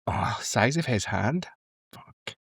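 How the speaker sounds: slow, hushed awe; mock swoon. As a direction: drop to a soft, slow, impressed murmur. Her own swooning reaction, retold.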